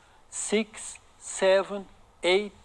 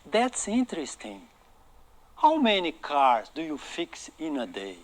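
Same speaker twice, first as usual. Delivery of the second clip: slow model reading; slower than usual. Shown as a demonstration. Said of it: "vou repetir outra vez a pronúncia".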